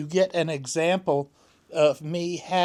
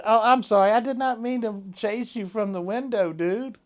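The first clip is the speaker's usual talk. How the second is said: apology to cat; 5 semitones higher than usual. Real, not acted.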